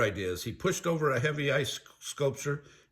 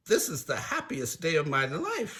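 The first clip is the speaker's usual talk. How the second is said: somewhat higher, goofy delight; Shaggy crying out happily; 4 semitones higher than usual. Acted. Shaggy sampling all the goodies, happy cry. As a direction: exclaim with cartoon happiness. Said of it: "Shaggy cried".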